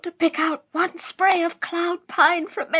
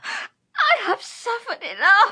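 slow, tearful defiance; pained, crying; slower than usual. Acted. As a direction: push words through pain. Tortured witch answering.

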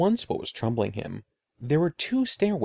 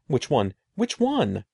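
anxious repeat; slower than usual. Acted. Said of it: "Eddie repeated".

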